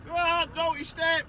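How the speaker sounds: mock telling-off a naughty child; scolding parent. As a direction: send them to the naughty step.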